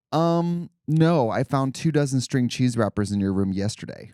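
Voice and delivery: put-on chirpy old sitcom mom. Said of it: "his mom is basically like".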